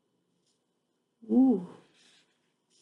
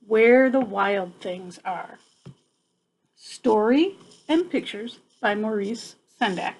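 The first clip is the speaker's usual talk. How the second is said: title read aloud. Acted. Teacher announcing the book title to her class.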